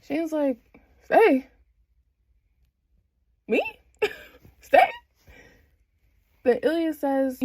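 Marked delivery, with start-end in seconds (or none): 1.0-4.9 high mock-surprised questions; stunned disbelief. Shane invited by Ilya to stay, stunned. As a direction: imitate someone taken aback, word by word.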